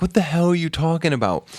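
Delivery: high-pitched incredulous question; retold disbelief. Friends answering the kid's claim, incredulous.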